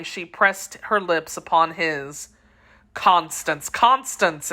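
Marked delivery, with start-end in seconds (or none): 2.9-4.5 exclaiming. Acted. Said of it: "exclaimed D'Artagnan".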